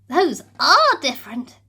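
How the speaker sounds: be astonished; gasping in wonder. Acted. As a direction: princess awed by the wings. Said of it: "gasped Meg".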